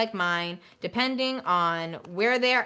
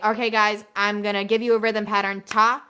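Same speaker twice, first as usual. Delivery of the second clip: louder classroom call of rhythm; louder teacher calling ta ta; 6 dB louder than usual. Shown as a demonstration. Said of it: "If I ever say".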